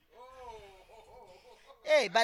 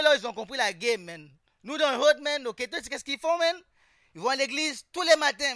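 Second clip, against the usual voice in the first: ordinary talk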